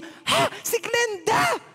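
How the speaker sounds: high, loud startled cry; shocked shout. Retold or imitated. Older woman shouting on recognizing the aunt's name. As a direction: shriek the name in disbelief.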